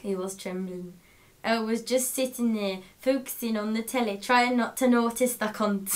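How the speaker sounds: reading aloud in attempted Scottish accent. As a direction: put on Scots for the page. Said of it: "written in Scottish dialect".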